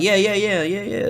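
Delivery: high string of quick yeahs; mock eager acknowledgement; eager agreeing. Acts out eager reply.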